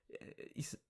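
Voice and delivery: breathy half-spoken whisper. Acted. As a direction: drop to a whisper mid-thought. Soft roleplay, whispered aside.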